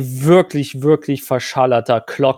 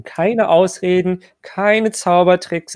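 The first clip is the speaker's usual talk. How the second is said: stern NPC voice; 6 semitones higher, slower than usual. Acted.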